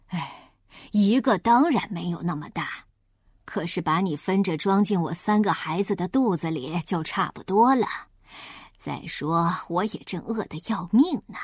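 a wolf calmly explaining his hunger; hungry wolf. Acted.

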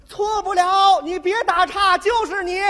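loud high accusing yell; girl accusing the cyclist, shouting; angry shout. Retold or imitated. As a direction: nail him, furious. Girl angrily accuses him.

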